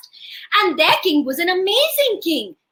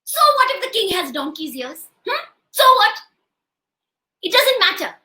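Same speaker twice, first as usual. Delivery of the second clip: challenging wife; 3 semitones higher than usual. Acted.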